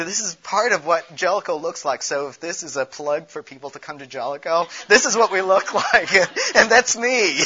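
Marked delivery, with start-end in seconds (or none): 4.9-7.5 laughing. Real, not acted. Laughs at own plug.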